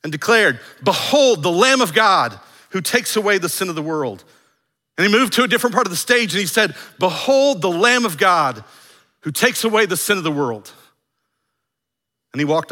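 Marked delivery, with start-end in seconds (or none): 0.8-4.2 loud, high proclamation; booming declaration. Acted. Declaring from the stage, loud proclamation. 7.0-10.7 loud proclamation, high on BEHOLD; booming declaration. Acted. Declaring from another part of the stage, loud proclamation.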